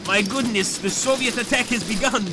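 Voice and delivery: high, loud war-movie commander yelling; mock battle cry. Streamer narrates the Soviet attack as a loud commander. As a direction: bellow it like a frontline officer rallying troops.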